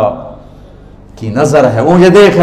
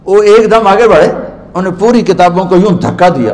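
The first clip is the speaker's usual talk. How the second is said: dramatic; 5 semitones higher than usual. Acted. Dramatic storytelling climax.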